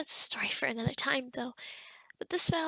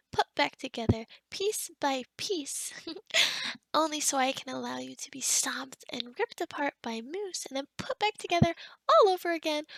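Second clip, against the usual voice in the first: hammed-up threat with louder peaks; gleeful threat; 7 dB louder than usual. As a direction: relish the playful threat, punching key words. Gleeful mock threat to guest.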